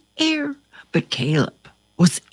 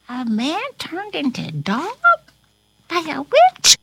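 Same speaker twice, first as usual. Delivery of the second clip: mock surprise; 4 semitones higher, faster than usual. Teacher feigns amazement.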